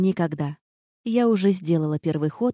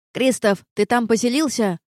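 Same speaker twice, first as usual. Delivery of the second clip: louder, higher bark down the corridor; barking gargoyle; 4 semitones higher, 4 dB louder than usual. Acted. Gargoyle barks at Kristof from the corridor, loud bark. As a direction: bark at him to hurry out. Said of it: "рыкнула в коридоре горгулья".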